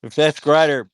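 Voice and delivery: calling out excitedly; loud, eager hail. Real, not acted. Excited greeting of returning voice.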